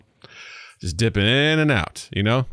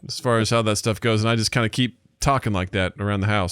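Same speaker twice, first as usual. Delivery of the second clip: Andy America accent. Shown as a demonstration. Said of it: "I'm slipping right back into it".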